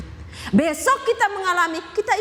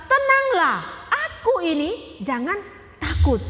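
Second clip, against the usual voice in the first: emphatic reassuring Jesus; 3 semitones higher, slower than usual. Acted. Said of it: "Yesus hanya berkata".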